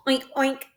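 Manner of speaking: soft little oinks; quiet mock oink; piglet oink. Shown as a demonstration. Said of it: "Can you oink like a piglet?".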